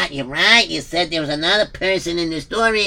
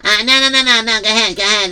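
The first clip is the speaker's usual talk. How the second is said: urgent protest; 5 semitones higher, 5 dB louder than usual. Acted. Hurriedly stopping Sender from leaving.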